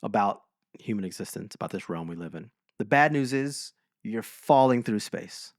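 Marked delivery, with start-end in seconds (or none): 2.8-5.5 slow recitation. Retold or imitated. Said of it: "There's a line that's a really good line".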